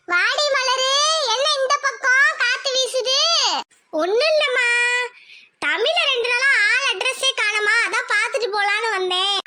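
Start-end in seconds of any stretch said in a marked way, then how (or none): 0.1-3.2 put-on slow, higher older-woman voice with a laugh; older mother greeting. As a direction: welcome the girl teasingly, slowly and higher. Friend's mother greets Malar.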